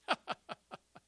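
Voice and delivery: breathy staccato cackle; acted laugh of derision; mocking laugh. Elijah watching the false prophets fail, mocking laugh. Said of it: "Elijah mocked them".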